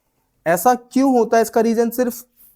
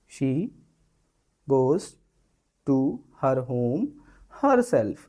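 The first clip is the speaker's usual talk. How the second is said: gentle way; 5 semitones lower, much slower than usual. Shown as a demonstration. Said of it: "एक तो ये तरीका हो गया बोलने का".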